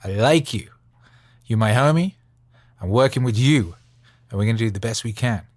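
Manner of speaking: cheerful pep talk to the crowd; hype greeting. Pretend. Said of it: "and just be like".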